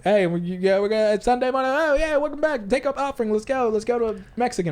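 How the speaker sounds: upbeat Sunday morning host; pumped-up welcome to the congregation; hype pastor voice. Retold or imitated. Mocking hyped Sunday pastor.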